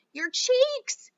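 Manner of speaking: high, loud, slow scream; mother screams as Violet turns blue. Acted. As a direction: draw the scream out in horror. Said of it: "screamed Missus Beauregard".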